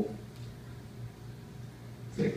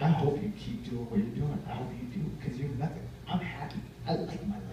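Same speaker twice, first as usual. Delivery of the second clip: softer, worn-out imitation of a ranter; tired retreat; 5 dB quieter than usual. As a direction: act out grumbling while walking away, spent. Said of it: "he got tired and started walking away".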